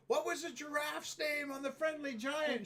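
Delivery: high, loud call to another room; acted shout to someone in the kitchen; retold yelling. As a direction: re-enact hollering a question through the house. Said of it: "I'm yelling to Patty in the kitchen".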